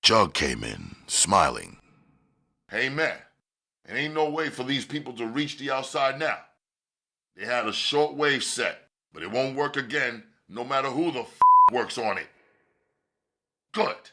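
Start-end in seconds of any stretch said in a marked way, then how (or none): 2.7-12.3 man's voice. Acted. Narrator voices Jug. 13.7-14.1 firm statement. Acted. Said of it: "Kenyatta stated".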